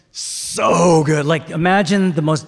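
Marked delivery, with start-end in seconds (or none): 0.1-1.3 gut yell. Shown as a demonstration. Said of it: "collectively we're gonna yell, like, from the gut".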